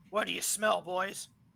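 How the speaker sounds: familiar fantasy dwarf character voice. Narrating a voice calling from beyond the growling wolves: familiar dwarven voice. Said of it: "very familiar dwarven voice".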